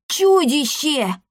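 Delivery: high, drawn-out frightened squeal; squeal of fright. A narrator's reading. Boy spotting a monster in the bushes, squealing in fright. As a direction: squeal it like you've just seen a monster. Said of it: "тут же взвизгнул".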